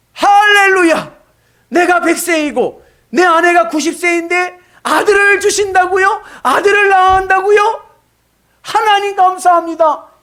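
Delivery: Abraham shouting high and loud in joy; joyful exclamation. Acted. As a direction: burst out in amazed praise. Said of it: "믿음의 감탄사라고 그랬죠". (기쁨에 찬 아브라함의 외침)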